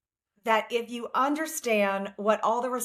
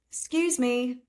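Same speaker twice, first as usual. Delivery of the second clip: put-on Southern accent, pitched a little up; lightly acted Southern politeness; 4 semitones higher than usual. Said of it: "in my best Southern accent".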